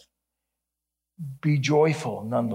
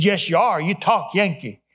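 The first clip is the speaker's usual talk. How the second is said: louder imitated Texas drawl; 4 semitones higher, 4 dB louder than usual. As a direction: insist like a Texan janitor, lightly drawled. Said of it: "strong Texas drawl".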